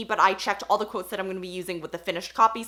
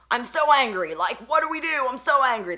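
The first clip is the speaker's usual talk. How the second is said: mock angry villain; 3 semitones higher than usual. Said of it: "storming around his ship being angry".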